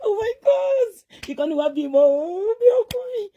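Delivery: high, loud squeal of joy; elated, tearful-sounding shriek; overjoyed announcement. Real, not acted. Announcing that a baby boy is born.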